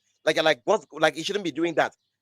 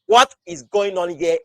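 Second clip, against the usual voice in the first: slow, louder baffled question; bewildered disbelief; 3 semitones higher, 7 dB louder, slower than usual. Acted. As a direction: draw the question out in mock bewilderment.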